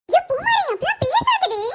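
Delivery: dismayed, high-pitched protest; alarmed hushing. Acted. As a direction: plead with your sister to stop. Sister hushing outspoken sister's complaint.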